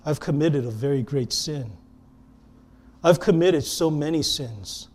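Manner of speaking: soft, low, halting confession; really serious. Retold or imitated. Caller admitting great sin to a Bible radio show, quiet and serious. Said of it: "suddenly it got really serious because this person just said".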